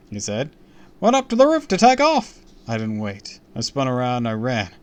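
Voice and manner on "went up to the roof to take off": loud, high showman; hammy celebrity charm; TV host voice. Acted. Host voice, far.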